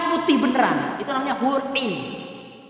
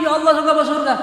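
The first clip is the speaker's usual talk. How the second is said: mock crying old woman; 5 semitones higher, 5 dB louder, faster than usual.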